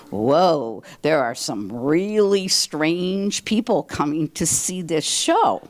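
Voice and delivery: slow, drawn-out imitation of a stunned husband; mock bewilderment. Wife retelling her husband's shock at the strange theatergoers, mock bewildered. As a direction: stretch it out, mildly aghast.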